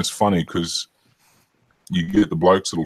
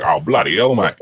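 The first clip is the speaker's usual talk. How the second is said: louder, higher exclamation, imitating a bloke; mock exclamation; 3 semitones higher, 5 dB louder than usual. Bloke swearing among his mates, loud mock exclamation.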